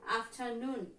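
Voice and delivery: "afternoon" with the stress on NOON; af-ter-NOON, weight on the end; stress on last syllable. Shown as a demonstration. Teacher shows example "afternoon", last syllable stressed. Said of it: "stress in the last syllable".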